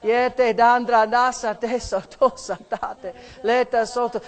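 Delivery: fervent glossolalia prayer; praying in tongues. Real, not acted. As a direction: pour out the syllables fervently.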